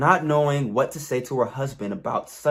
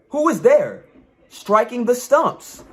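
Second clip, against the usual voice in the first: fairy voice; 9 semitones higher, 5 dB louder than usual. Acted. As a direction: call out like a hidden spirit. Fairy voice questions the farmer.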